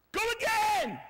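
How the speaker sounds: high, loud sudden order; shouted command. Acted. Prophet sending the tired servant back, shouted command. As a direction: bellow it at the servant.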